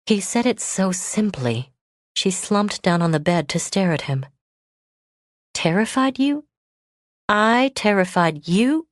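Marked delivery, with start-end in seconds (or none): 5.5-8.9 stunned disbelief. Acted. Autumn astonished.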